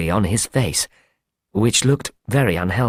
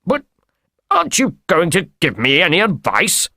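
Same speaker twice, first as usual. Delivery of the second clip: higher-pitched, dismayed appeal in character; pleading cry; 5 semitones higher than usual. A narrator's reading. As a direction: plead with him as he leaves. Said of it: "cried Blessington".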